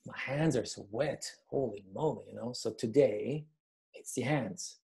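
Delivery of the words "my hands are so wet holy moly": nervous. Shown as a demonstration.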